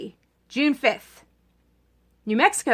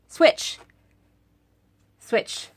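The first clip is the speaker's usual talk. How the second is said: whispered; 3 dB quieter than usual. Acted. Urging voters to switch.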